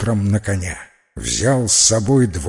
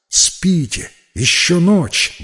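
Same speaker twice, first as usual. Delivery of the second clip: higher-pitched, urgent hushing-back-to-sleep answer; hurried reply; 6 semitones higher, slower than usual. Acted. Evan quickly answers the waking knights, higher urgent reply. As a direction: pitch it up, anxious to send them back to sleep. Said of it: "быстро промолвил Эван".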